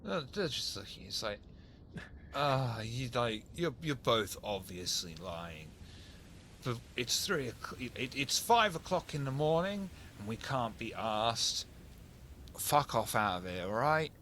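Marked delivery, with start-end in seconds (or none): 2.3-14.1 weary Cockney copper sending them off; lightly voiced Cockney police officer; Cockney policeman. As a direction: dismiss them as a Cockney cop. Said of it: "that accent when I do a policeman".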